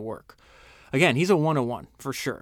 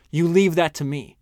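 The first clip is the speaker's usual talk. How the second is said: snarled; 3 semitones higher, 5 dB louder than usual. Retold or imitated. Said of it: "and snarled".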